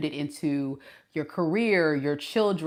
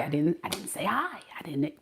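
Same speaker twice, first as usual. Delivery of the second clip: sheepish apology; 9 dB quieter than usual. Retold or imitated. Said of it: "And I'm like".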